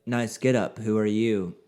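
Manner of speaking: flat monotone Batman; deadpan monotone delivery. Retold or imitated. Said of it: "in that same kind of monotone voice".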